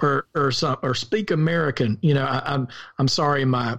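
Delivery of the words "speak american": lightly mock a Southern accent; rural Southern accent. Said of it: "my rural Southern accent comes out when I do that".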